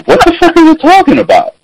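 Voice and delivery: high, incredulous what-the-fuck; a mock-baffled yelp at his wife; stunned disbelief. Husband baffled by wife's question, high incredulous disbelief. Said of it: "I just look at her weird, like".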